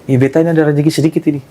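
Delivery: put-on quick line in an Ambonese accent; imitated Ambonese lilt. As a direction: put on Ambonese dialect, speaking briskly. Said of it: "Pakai logat Ambon kan".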